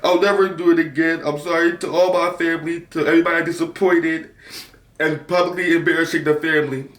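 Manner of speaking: tearful apology to mom; mock tearful. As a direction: imitate crying while apologizing. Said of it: "in tears".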